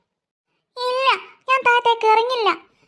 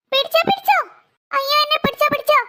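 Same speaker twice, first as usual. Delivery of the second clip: panicked plea; 4 semitones higher than usual. Acted. Child slipping from the tree.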